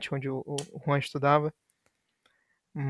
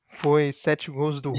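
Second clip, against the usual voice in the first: laughing; much slower than usual. Real, not acted. Joking about the 7-1 loss.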